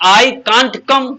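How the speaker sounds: each word stretched out for the class; slow, drawn-out model sentence. Shown as a demonstration. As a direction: say it slowly, as a model for students. (धीरे-धीरे, खींचकर)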